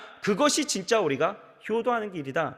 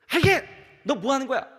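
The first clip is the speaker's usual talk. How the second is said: mock scolding; 7 semitones higher, 4 dB louder, faster than usual. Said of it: "막 소리를 칩니다".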